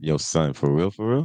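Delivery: imitated New York slang delivery; New York accent. Showing his co-host New York talk, New York accent. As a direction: toss it out like a New Yorker. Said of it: "how do they talk from New York".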